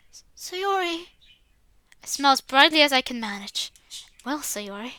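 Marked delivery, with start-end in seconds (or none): 0.1-1.1 put-on higher, stammered little-girl voice; timid stutter of her own name; shy crying girl, a hint of a higher voice; mumbled name. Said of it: "manages to mumble something".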